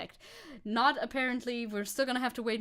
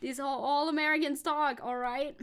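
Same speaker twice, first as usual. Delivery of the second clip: German-Texas twang, a little higher and insistent; German-Texas accent; 4 semitones higher than usual. Pretend. Streamer telling chat how Americans talk, German-Texas accent. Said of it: "German Texas fusion accent".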